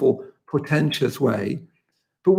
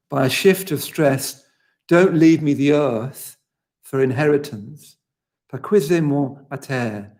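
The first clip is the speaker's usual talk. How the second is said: poetry reading. Acted. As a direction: let each image land, unhurried. Reads the Walcott passage aloud.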